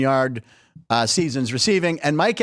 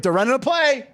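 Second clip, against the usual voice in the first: higher-pitched mock excitement; excited fan, retold; 8 semitones higher than usual. Host quoting a fan watching the game at home, mildly excited. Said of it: "And he gets really excited".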